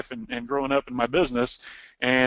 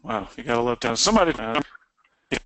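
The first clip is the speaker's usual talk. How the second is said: audio cutting out; 2 semitones lower, faster than usual. Real, not acted. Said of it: "You keep cutting out".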